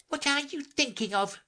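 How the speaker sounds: stern scolding. A narrator's reading.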